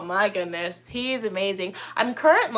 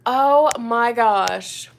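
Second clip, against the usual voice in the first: slow amazed reaction; 6 dB louder, much slower than usual. Real, not acted. Reacting to a viewer's comment.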